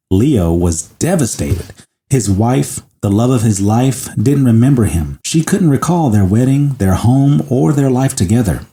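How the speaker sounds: measured storytelling read; story narration. Acted. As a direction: tell it like a story, unhurried. Reads the story aloud.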